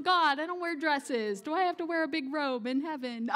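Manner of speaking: mock complaint through a laugh; half-laughing, playing up the worry; a touch of mock dismay with laughter; laughing quote. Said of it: "and I'm going".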